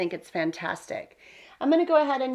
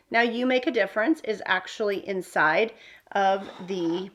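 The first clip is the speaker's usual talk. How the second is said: usual speaking voice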